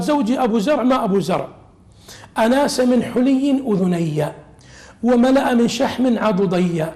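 measured, drawn-out reading of classical text; slow recitation. Acted. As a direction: recite each phrase with weight, slowly. Recites hadith text slowly. (تلاوة متأنية للنص)

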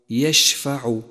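يشفع with a full, spread sh; lingering sh in يشفع; spreading shin. Shown as a demonstration. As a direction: let the ش in يشفع fan out through the mouth. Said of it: "انتشار الشين في الفم".

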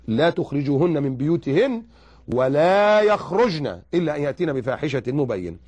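slow, measured Quranic recitation; chanted verse, steady. Acted. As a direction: intone the verse slowly.

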